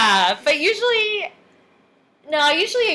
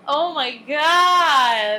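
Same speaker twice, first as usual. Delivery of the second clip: drawn-out oh my God; 3 semitones higher, 4 dB louder, much slower than usual. Real, not acted. Shocked at boobs joke.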